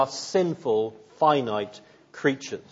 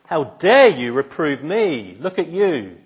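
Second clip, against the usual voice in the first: louder mock indignant comeback; retaliating; 3 semitones higher, 7 dB louder than usual. Preacher mimics a sinner hitting back at his accuser, as a mock angry retort. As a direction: snap back at the accuser, hammed up a little. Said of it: "Do you retaliate?".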